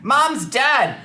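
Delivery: high, loud hammed-up movie shriek; melodramatic wail. Host mocking old films, in a hammy shriek. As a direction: overact a grieving scream. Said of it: "movies where people just".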